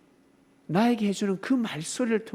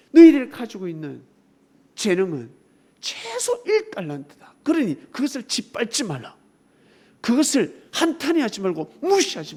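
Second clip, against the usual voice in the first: preaching shout; 4 semitones higher, 6 dB louder than usual. Acted. Preacher proclaims God's word.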